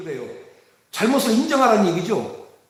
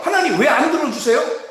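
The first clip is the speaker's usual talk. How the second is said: whiny complaint; 3 semitones higher than usual. Acted. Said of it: "막 이렇게 하면서".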